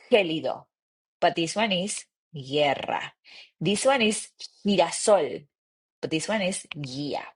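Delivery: gélido and girasol rasped, guerra and guía soft; harsh versus soft G. Shown as a demonstration. Teacher asking students to hear the difference. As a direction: contrast throaty G with soft G. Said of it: "I want you to hear the difference".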